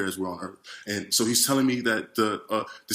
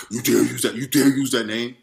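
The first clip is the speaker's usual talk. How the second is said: intimidating roar; 5 dB louder than usual. Retold or imitated. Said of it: "a roaring, yelling, a very intimidating, like, voice".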